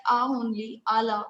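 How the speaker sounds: "a" said as an open ah; French "a" sound. Shown as a demonstration. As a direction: say "a" as ah, as in "ala". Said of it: "it is said as".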